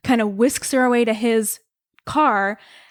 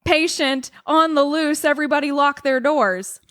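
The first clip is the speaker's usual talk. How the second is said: radio announcer; 3 semitones higher than usual. Acted. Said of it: "they have the radio on".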